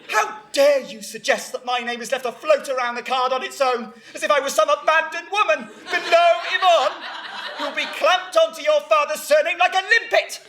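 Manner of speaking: mock-outraged mother, building as it goes; indignant. Mother outraged at her name's place on the card, indignant. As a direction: work up into an offended tirade.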